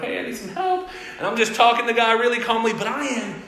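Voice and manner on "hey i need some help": retold radio call. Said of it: "so I kinda went".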